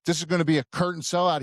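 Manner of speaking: quick, high-pitched excited quote. Retold or imitated. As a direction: imitate a thrilled onlooker rushing it out. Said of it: "He was so excited".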